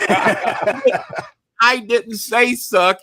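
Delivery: retold protest. Retells protesting his innocence.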